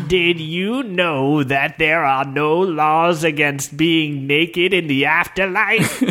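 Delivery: slow ghostly voice. Acted. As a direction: speak slowly like a smug ghost. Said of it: "Together they spoke".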